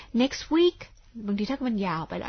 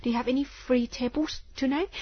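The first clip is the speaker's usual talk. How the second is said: slow model phrase; 3 semitones higher, much slower than usual. Shown as a demonstration. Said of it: "อย่างเงี้ยนะคะ".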